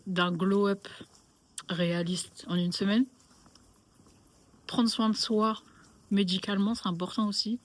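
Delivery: numb mouth after the dentist; slightly slurred, numb lips. Real, not acted. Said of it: "c'est pour ça que je parle comme ça".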